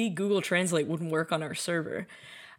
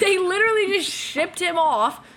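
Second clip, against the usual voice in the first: laughing; 8 semitones higher, 3 dB louder than usual. Real, not acted. Laughing disbelief at Russian team.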